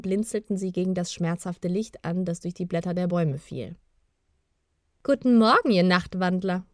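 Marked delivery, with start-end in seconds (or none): 5.0-6.7 cheerful. A narrator's reading. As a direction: sing out a merry hello to sleepyheads. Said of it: "Gemalda war so vergnügt".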